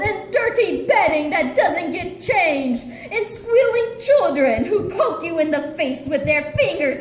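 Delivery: gloating villain speech, lightly voiced; a hint of a gloating mastermind; villain monologue. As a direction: read it as a smug cartoon villain. Villain monologue read aloud.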